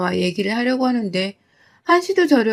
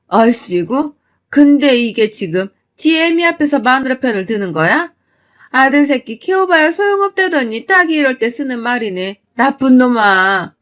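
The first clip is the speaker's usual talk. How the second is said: angry scolding; 4 dB louder than usual. Acted. Mother berating son for taking wife's side, angry.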